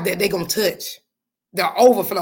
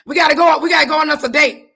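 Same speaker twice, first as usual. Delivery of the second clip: laughing; 6 semitones higher, 4 dB louder, faster than usual. Real, not acted. Laughing, excited at Miss Laura.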